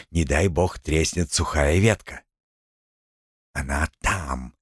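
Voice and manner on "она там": hushed low whisper. A narrator's reading. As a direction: breathe it out softly and slowly. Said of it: "прошептал Гремлун".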